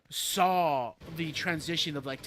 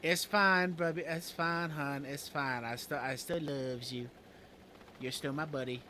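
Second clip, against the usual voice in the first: mock comforting; 2 semitones lower than usual. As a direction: soothe them like a pouting child, fading down. Consoling chat playfully.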